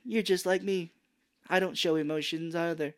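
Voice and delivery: worst-way bonding line. Retold or imitated. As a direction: imitate bad acting with a touch of amusement. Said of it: "In the worst way".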